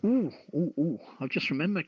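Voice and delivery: high, loud, quick burst of remembering; excited ooh of sudden recall; sudden excitement. Real, not acted. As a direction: blurt it out as it suddenly comes back to you. Host suddenly remembers a segment.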